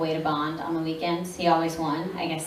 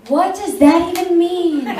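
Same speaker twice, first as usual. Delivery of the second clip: loud bewildered squeal; 11 semitones higher, 9 dB louder than usual. Retold or imitated. Confused about fans watching subtitled episodes.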